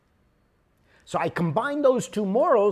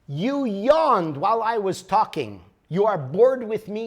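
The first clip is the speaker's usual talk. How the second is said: tearful accusation; 5 semitones higher, 7 dB louder than usual. Retold or imitated. Bride accusing her husband after he yawned, tearful and loud. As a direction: wail it like a wounded bride.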